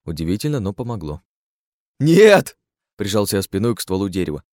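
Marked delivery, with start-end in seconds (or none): 2.0-2.6 yelled refusal. Acted. Pressed back against tree.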